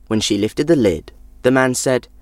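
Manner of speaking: ordinary delivery, nothing marked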